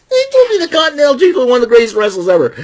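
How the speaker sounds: high put-on voice. Continuing the impression.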